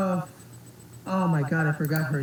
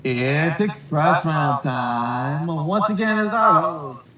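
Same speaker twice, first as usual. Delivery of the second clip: game show announcer; 3 semitones lower, slower than usual. Acted.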